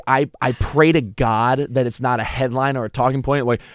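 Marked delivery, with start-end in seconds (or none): none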